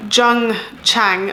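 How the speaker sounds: "Zheng Chang" said with English vowels and no Chinese tones; English-accented name. Shown as a demonstration. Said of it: "saying that with an English accent".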